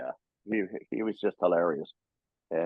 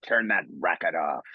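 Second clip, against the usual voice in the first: gruff Wolverine; 4 semitones lower than usual. Retold or imitated. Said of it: "and he says".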